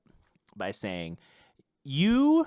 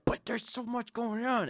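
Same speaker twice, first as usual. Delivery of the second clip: mock protest; 8 semitones higher, 6 dB quieter than usual. Voices one side of inner doubt.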